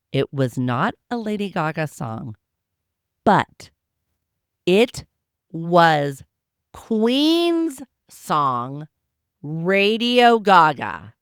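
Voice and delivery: slow reveal, each word held and loud; dramatic reveal. Real, not acted. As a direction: build suspense, then land Radio Gaga. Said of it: "Lean in. This is important".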